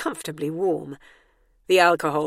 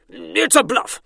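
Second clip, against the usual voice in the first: nervous edge; 2 semitones higher, 7 dB louder than usual. A narrator's reading. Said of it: "There was a nervous edge to Colin's voice".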